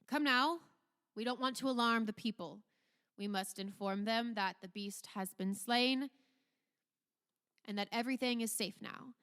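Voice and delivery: lightly voiced authoritative duke; Duke addressing crowd. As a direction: reassure the crowd with a touch of command. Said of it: "And he says".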